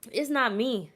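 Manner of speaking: big tipsy protest. Real, not acted. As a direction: stretch out the denial. Repeated denial, fading takes.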